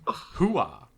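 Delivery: barked military hooah; loud gung-ho soldier. Pretend. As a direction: shout it like a pumped-up marine.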